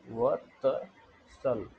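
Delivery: "वत्सल" drawn out slowly syllable by syllable. Shown as a demonstration. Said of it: "आधा त है बस".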